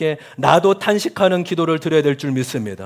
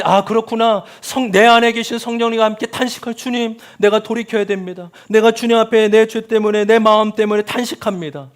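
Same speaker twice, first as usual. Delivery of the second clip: lamenting prayer; 5 semitones higher, 3 dB louder than usual. Acted. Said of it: "기도하면".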